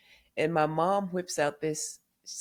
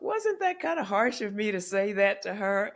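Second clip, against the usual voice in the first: harsh tone; 4 semitones higher than usual. Retold or imitated. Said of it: "I said it just about in that tone".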